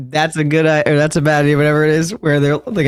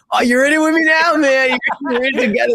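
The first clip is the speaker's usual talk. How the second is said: mock high squeak; 10 semitones higher, faster than usual. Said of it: "He's like".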